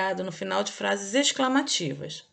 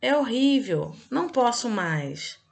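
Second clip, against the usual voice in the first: exclamation demo; 3 semitones higher, 4 dB louder, slower than usual. Shown as a demonstration. Teacher acting out an exclamation example for pupils, dramatically. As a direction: act out the exclamation with feeling. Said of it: "Aí o exemplo".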